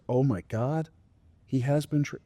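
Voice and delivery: retold panic. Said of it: "And I said".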